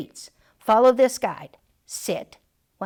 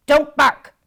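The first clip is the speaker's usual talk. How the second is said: mock yell from people; 6 semitones higher, 9 dB louder than usual. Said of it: "My people yell".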